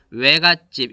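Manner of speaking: 외 in 외갓집 as a gliding "we"; everyday diphthong in 외갓집; everyday pronunciation. Shown as a demonstration. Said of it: "이렇게 발음하죠?".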